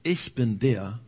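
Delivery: low, hushed voice from heaven; hushed divine voice. Acted. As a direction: reveal yourself in a low hush. Divine voice reveals itself.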